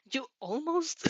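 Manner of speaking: slow, quiet laughing question; teasing laugh. A narrator's reading. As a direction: tease it through a laugh.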